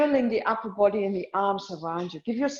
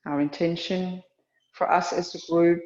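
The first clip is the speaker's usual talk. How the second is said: calm, measured yoga-teacher voice with long pauses; guided meditation; 3 semitones lower than usual. Real, not acted. Teacher guiding a yoga class into awareness of breath and heart, calm meditation. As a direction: settle them into stillness, phrase by phrase.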